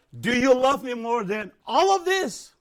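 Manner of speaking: slow, solemn question with all stressed; Jesus asking. Retold or imitated. Jesus asking Peter about agape love, slow and solemn. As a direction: ask it slowly, as a loving plea. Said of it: "Tuhan tanya dengan agape love".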